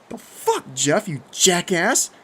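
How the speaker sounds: loud, slow, angry outburst; livid growl. A narrator's reading. Livid narrator to prankster Jeff, growling angrily. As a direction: lay into him, stretching the insult. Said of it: "I growled".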